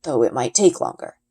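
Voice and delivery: a lightly voiced, steady father explaining; a hint of a calm, knowing father; Papa's voice. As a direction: answer patiently like a wise dad. Papa explaining dragon flight.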